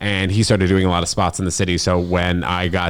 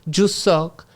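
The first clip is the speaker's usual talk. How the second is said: much higher, very slow put-on woman's voice; mock snide woman; 11 semitones higher, much slower than usual. Mimicking the woman leaving his show, slow and mocking. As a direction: drag out the insult mockingly. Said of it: "She goes".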